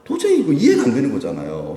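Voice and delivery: high, loud burst of frustration; upset protest. Acted. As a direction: argue your case, upset and worked up. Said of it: "속상해요".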